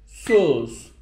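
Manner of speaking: "sus" held evenly, then stop; one-beat rest. Shown as a demonstration. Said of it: "Yani şöyle".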